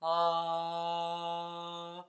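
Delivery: breathy, hollow low singing tone; ghost sound. Shown as a demonstration. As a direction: sing it airy and ghostly, larynx loose. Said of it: "they have that ghost sound".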